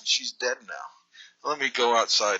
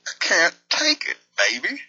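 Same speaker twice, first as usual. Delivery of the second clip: mock hurt whining; 9 semitones higher, 4 dB louder than usual. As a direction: play wounded, way over the top. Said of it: "this is a put on".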